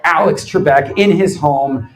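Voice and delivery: booming mock broadcast welcome; announcer intro. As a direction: sell it like a show opener. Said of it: "I hit record".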